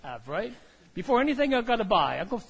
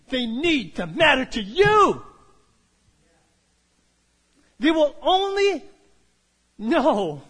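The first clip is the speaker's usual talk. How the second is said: God speaking; 4 dB louder than usual. Acted. God's words quoted in sermon.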